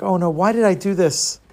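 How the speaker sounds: mildly acted boy's rising worry; touch of homesick panic; regretful panic. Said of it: "he starts to regret his actions".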